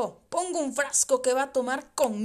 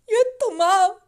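loud sobbing cry; 4 semitones higher, 6 dB louder than usual. Retold or imitated. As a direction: break into loud tears on the words. Son's cry retold.

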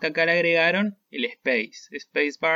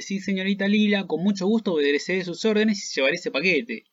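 half mocking; 4 semitones higher than usual. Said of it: "Lo dice así, medio burlona".

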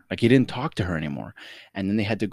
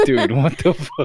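slow, mock-stunned line said through laughter; imitating friend, laughing; 4 semitones higher, 6 dB louder than usual. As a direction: replay his shocked reaction while giggling. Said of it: "and you were like".

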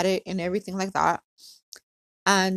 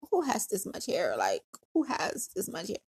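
acted weary complaint; 2 semitones lower, 8 dB quieter than usual. Acting out weariness during long process.

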